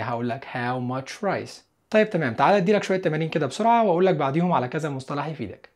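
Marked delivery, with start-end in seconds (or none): 0.4-1.5 slow model sentence. Shown as a demonstration. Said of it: "كمية".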